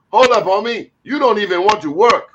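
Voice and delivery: put-on high, loud West African accent. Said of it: "This is my West African accent".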